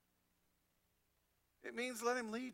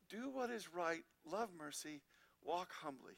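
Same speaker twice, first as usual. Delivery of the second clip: lower, softer repeat of the three commands; softer echo; 5 semitones lower, 8 dB quieter than usual. Shown as a demonstration. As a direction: let the summary sink in, quieter and lower. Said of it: "Listen to the wording".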